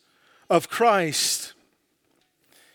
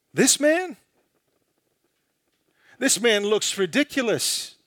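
mocking Pilate; 3 semitones higher than usual. Pilate mocking Jesus in sermon.

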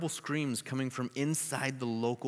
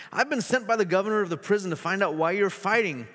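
higher, louder firm announcement; addressing the crowd; 8 semitones higher, 6 dB louder than usual. Acted. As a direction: call out over the prisoners. Gladys addresses rioting prisoners.

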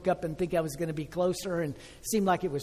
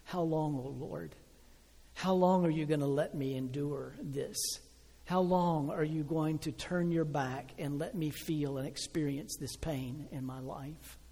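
lament; 4 dB quieter than usual. Retold or imitated. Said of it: "like the psalmist, declare".

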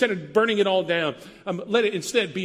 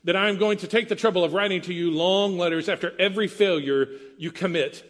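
stern father; 2 semitones higher than usual. Retold or imitated. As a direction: read it like a disappointed father. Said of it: "a dad to a son".

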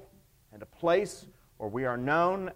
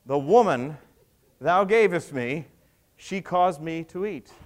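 defensive blame; 5 dB louder than usual. Acted. Adam blaming in Genesis.

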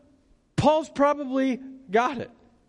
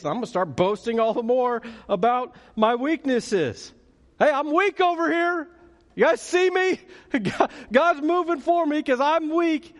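mock boasting Paul; 5 semitones higher than usual. Preacher imitating Paul bragging to the crowd, hammed-up glee. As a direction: ham up a proud boaster showing off his weakness. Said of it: "Paul starts in with that crazy talk".

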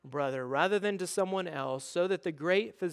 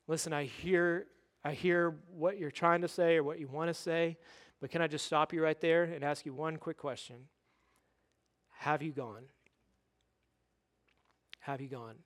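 loving redirection; 5 dB quieter than usual. Acted. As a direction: gently stop a friend and question them. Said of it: "will lovingly redirect us".

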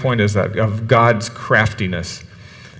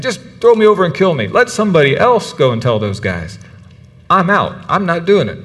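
1 rebellious Jonah; 5 semitones higher than usual. Retold or imitated. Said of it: "but he's saying".

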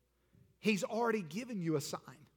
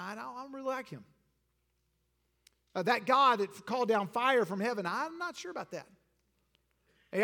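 mock religious person; 4 semitones higher, 5 dB louder than usual. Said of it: "A lot of religiosity in our world today".

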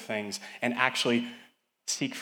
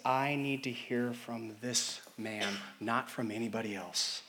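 slow, softer voice of Zacchaeus; earnest plea; 6 dB quieter, slower than usual. Retold or imitated. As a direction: say it quietly, with longing. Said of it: "He says".

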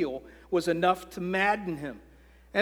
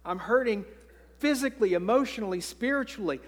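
somewhat higher, pained plea; David telling God he hurts; a hint of hurting David; 4 semitones higher than usual. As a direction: lay out the hurt to God. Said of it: "He says".

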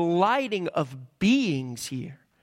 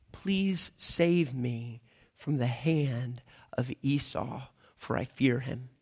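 low, slow, hushed plea; fearful prayer; 7 semitones lower, 5 dB quieter, slower than usual. Retold or imitated. Jacob pleading with God before meeting Esau, hushed and slow. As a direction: beg God for rescue, frightened and small. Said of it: "his prayer to God, he said".

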